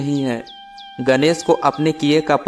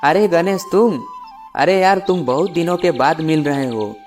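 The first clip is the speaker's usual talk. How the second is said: put-on higher-pitched, pleased greeting to an old friend; delighted surprise; 6 semitones higher than usual. Ram runs into his childhood friend Ganesh, delighted surprise. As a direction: exclaim it on a high, lifted pitch.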